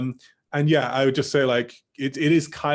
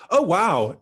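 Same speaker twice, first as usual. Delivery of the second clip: higher-pitched demo of surprise; shocked; 6 semitones higher, 4 dB louder than usual. Shown as a demonstration. Teacher models an interjection for showing shock, shocked. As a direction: react with a raised, surprised "oh, wow". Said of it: "showing shock".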